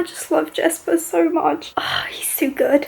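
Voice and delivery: whispered adoration; gushing whisper. Real, not acted. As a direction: breathe it out like a secret. Gushing about a favourite character.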